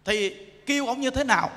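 ordinary delivery

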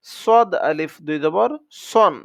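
সদ and সন slowly, tongue somewhat rounded; rounded-tongue Sad. Shown as a demonstration. Teacher drills students on the letter Sad, সদ said slowly with rounded tongue. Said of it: "জিহ্বাটা কিছুটা গোল হয়ে উচ্চারণটা হবে".

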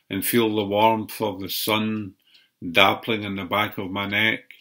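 measured poetry recital in short phrases; poem reading. Acted. Poet reciting a walk through the park, measured poem reading. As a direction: recite it line by line, pausing between phrases. Reads own poem aloud.

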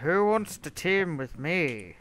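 slow, stretched-out mimicry; imitating a player. Gamer mimics what a rival keeps saying, slow mocking voice. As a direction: put on a slow mock invitation. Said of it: "like, that's how he sounds".

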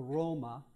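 "Roma" as Italian ROH-mah; Italian pronunciation. Shown as a demonstration. Contrasting native names with English ones, Italian pronunciation. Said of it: "we don't say Paris, you see, or Roma".

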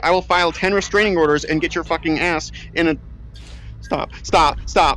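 panicked yelling threats; frightened furious shouting; scared and angry. Acted. Threatening unseen attacker in game.

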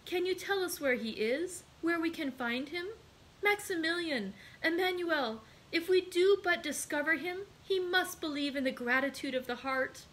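high, urgent pleading; impassioned young woman, pitch held high; eager cry. A narrator's reading. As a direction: appeal to everyone with mounting fervour. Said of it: "cried Julie".

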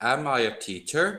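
"Am I a teacher" rising on "teacher"; question intonation. Shown as a demonstration. Teacher repeats the example question for students, rising tune. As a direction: ask it with a gentle lift at the end. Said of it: "ขึ้นลงนิดนึงนะ".

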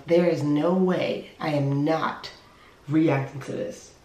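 slow, quiet thought to herself; slow inner thought. Retold or imitated. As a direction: say it slowly, like thinking aloud. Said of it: "I said to myself".

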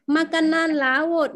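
Makanan laut spelled out slowly, syllable by syllable; slow model word. Shown as a demonstration. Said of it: "nó là hải sản". (đọc chậm rõ từng âm Makanan laut)

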